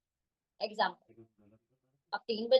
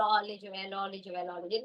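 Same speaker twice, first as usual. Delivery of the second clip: put-on cooing to a child; 3 semitones lower, 5 dB quieter than usual. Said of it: "बोलो".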